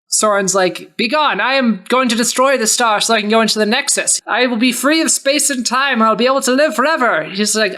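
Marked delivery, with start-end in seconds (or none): 0.9-7.2 villain declaring. Acted. Villain Soren declaring his plan.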